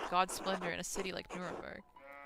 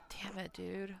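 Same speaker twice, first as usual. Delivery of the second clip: breathy whispered dismay under the breath; whispered curse; 8 dB quieter, slower than usual. Real, not acted. Player hearing about the lost child, real whispered curse. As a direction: whisper it, deflated. Sad game news reaction.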